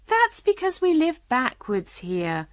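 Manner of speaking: kindly Queen, pitched high. A narrator's reading. Queen explaining backwards living to Alice, kindly. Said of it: "explained the Queen kindly".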